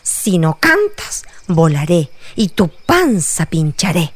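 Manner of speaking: mild mock threat; a touch of annoyed threat; angry threat. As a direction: wasp bullying the bat, understated. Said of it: "muy enojada amenazó".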